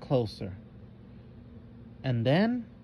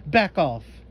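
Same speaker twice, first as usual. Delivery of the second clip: a louder warning shout; cornered cry; 2 semitones higher, 6 dB louder than usual. Acted. The frightened creature warning Melissa off, louder cry. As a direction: warn her away, cornered and scared. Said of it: "it cried".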